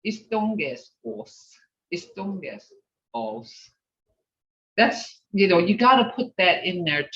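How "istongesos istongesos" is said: Istongesos soft, without the Muskogee sh; flat English-style Istongesos; teacher imitating learners without the Muskogee sound; English-type pronunciation. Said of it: "I've heard some people speak like".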